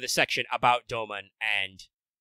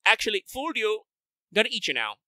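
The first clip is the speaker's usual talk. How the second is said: sneering panto villain; 9 semitones higher than usual. Retold or imitated. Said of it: "he's like".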